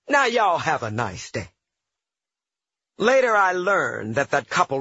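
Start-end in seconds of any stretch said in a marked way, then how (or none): 0.1-1.5 cheerful. Retold or imitated. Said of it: "cheerfully exited the elevator with".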